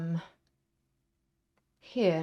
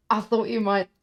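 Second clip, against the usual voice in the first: louder, eager, rushed praise; excited henchman; 4 semitones higher, 11 dB louder than usual. Acted. Vinny thrilled to be praised by his boss, loud and eager. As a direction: gush to the boss like a thrilled lackey. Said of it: "Vinny looks like".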